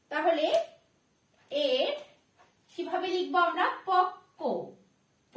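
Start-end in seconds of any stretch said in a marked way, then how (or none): 3.9-4.4 পক্ক as pok-ko, doubled k; correct pronunciation. Shown as a demonstration. Teacher asks how to write it, correct pronunciation. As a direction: say পক্ক with no b sound. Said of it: "পকব না".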